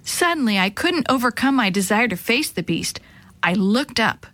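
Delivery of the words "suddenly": usual speaking voice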